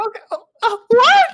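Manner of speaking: loud, very high squeal of suspicion; hammed-up squeaky accusation; put-on jealous date. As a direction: play a jealous date in falsetto. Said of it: "She was putting on a voice".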